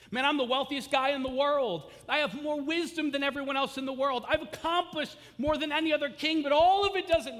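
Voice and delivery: loud, high, boastful king; Solomon boasting. Acted. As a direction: crow about your riches like a proud king.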